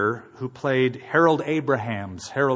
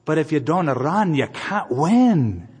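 gentle smiling encouragement; slower than usual. Retold or imitated. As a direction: smile it to him kindly. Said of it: "she looks at him and smiles and says".

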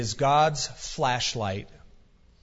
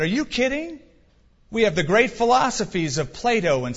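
scoffing; 6 semitones higher than usual. Pretend. Greeks scoff at the question.

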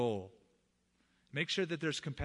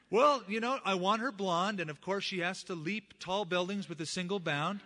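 mock eager friend listing demands, higher and louder; 4 semitones higher, 3 dB louder than usual. Preacher mimics his friend describing his ideal wife, higher and louder. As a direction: ham up the friend's wishlist.

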